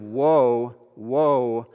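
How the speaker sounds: drawn-out, mildly wailed woe; hopeless wailing, imitated. Preacher portraying lost humanity's cry, mild wail. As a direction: stretch each woe as a restrained lament. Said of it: "portrays the hopeless wailing".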